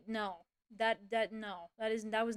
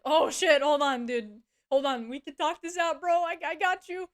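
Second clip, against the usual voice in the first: lightly voiced boss backpedaling fast to placate; a hint of flustered, chummy pleading; mock panicked boss; 3 semitones higher, 5 dB louder than usual. Boss caught by HR in chat, mock placating.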